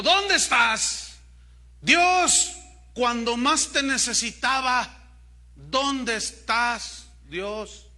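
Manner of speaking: desperate cry. A narrator's reading. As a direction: drag out the plea to an absent God. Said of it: "gritó". (súplica gritada, alta y muy lenta)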